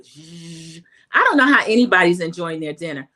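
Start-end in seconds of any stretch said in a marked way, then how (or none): 0.0-0.8 soft imitated vacuum hum; vacuum buzz. Vlogger imitates the staff's vacuum, soft buzz. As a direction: buzz like a wet vac. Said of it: "vacuum sound is going like".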